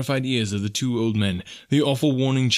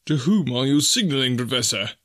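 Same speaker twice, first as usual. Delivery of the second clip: mildly excited, pitched up; 4 semitones higher than usual. A narrator's reading. Companion questioning the waving professor, excited. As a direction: ask with rising excitement, character voice. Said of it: "in an excited tone".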